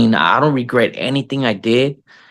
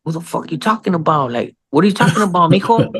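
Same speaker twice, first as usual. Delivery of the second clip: baffled dad; 7 semitones higher than usual. Retold or imitated. Acts out his baffled reply.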